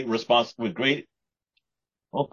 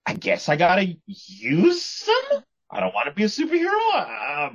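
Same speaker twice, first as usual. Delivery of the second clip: whiny reluctant hero; 8 semitones higher than usual. Retold or imitated. Mock voicing the reluctant hero.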